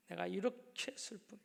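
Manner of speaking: hushed, breathy plea to God; a soft whisper of sorrow; whispered prayer. Acted. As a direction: whisper it like a private confession. Praying alone in closet.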